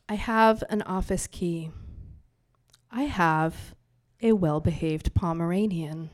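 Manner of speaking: spoken-word poet reading to a bar audience; poem recital. Acted. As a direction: perform the poem for a live crowd. Performs her poem.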